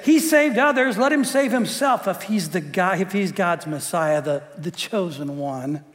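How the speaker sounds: mocking religious leaders; sneering mockery. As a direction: sneer it at him. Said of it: "these religious leaders ... said".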